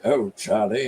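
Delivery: lightly imitated Cary Grant continental accent; a quick touch of put-on continental affectation. Showing how Cary Grant sounds, in a continental accent. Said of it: "it makes him sound like".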